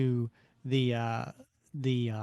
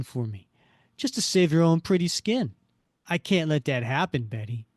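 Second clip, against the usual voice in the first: menacing crook Buck; 3 semitones higher, 4 dB louder than usual. Acted.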